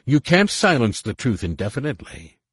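distorted voice. A narrator's reading. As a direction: taunt through a disguised voice. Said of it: "He had distorted his voice".

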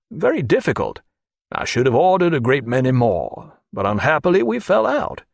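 polite storyteller with lifted, lively swings in pitch; lightly characterised courteous gentleman; lightly voiced Johnson. Johnson telling Stephen about falling out with a painter, lightly voiced.

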